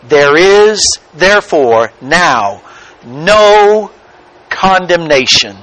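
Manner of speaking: word by word, "no" lifted after a pause; measured reading with weight on "no"; stress on no. Shown as a demonstration. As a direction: pause around "no" and set it apart. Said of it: "most important words in this sentence is the word".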